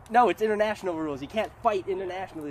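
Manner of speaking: exasperated. Retold or imitated. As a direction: correct them, fed up. Imagined retort.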